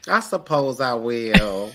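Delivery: slow, grudging acceptance; mock reluctant bride. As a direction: drag the words out reluctantly.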